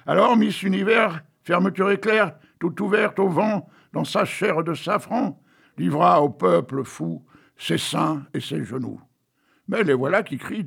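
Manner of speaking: reading a poem to the audience. Acted. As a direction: recite the verses with a storyteller's lilt. Reads a poem aloud.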